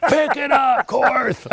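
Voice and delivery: high, loud, yelling fitness instructor voice. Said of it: "somebody's yelling at me".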